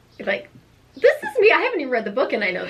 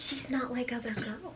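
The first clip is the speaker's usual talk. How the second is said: mocking cliché; 14 dB quieter than usual. Friend mocks cliché line.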